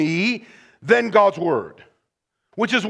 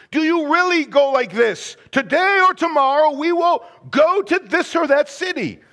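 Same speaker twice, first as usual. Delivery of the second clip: higher, pressing disbelief; incredulous challenge; 4 semitones higher than usual. Retold or imitated. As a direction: James pressing them in disbelief. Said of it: "It's James saying".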